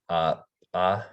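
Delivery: popped "Uh" like an unvoiced P; glottal P. Shown as a demonstration. Teacher showing the glottal P, popped and unvoiced. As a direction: pop a glottal P sound. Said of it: "like an unvoiced P".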